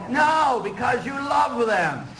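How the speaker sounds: shouted answer. Real, not acted. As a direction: shout it out: no, because you love them.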